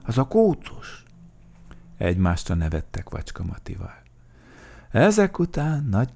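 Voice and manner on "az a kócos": high, fond little remark; name it with a smile; tender, raised-pitch ending; smiling. A narrator's reading. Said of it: "mosolygott Mikka Makka".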